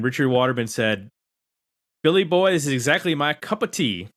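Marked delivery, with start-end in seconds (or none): 2.0-4.1 put-on reading a listener comment in a light Southern accent. Host reading a fan's comment aloud, in a light Southern accent. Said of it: "why he said it with a Southern accent".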